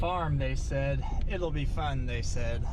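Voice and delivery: sarcastic. Acted. Ironic joke about farming.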